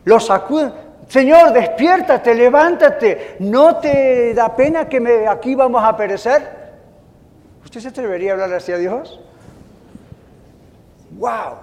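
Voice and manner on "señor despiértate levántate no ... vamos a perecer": high, loud, drawn-out cry to wake him; slow, urgent shouting reproach; loud panicked rebuke. Acted. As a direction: scold the sleeper in desperation. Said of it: "tienen el coraje de reprender a Jesús".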